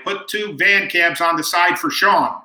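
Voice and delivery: retold yell. Valet to the other valet, mild imitated yell. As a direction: imitate calling an order across, drawn out. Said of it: "this valet yells to the other valet".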